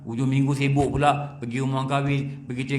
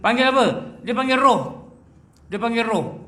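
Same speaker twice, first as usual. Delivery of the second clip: loud, higher sermon call; forceful preaching; 8 semitones higher, 5 dB louder than usual. Acted. Preacher answering his own question to the congregation, loud. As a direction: drive the question home.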